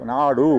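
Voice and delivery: நாடு with the closing ஊ held; final vowel shown. Shown as a demonstration. Teacher proving to students the word ends in a vowel, demonstrated pronunciation. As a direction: let நாடு end on a clear "oo". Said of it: "அப்ப ஊ வந்துருச்சு".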